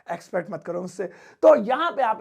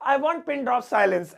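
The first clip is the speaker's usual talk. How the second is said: slow model phrase; 2 semitones higher, much slower than usual. Shown as a demonstration. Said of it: "ऐसे बोलेंगे".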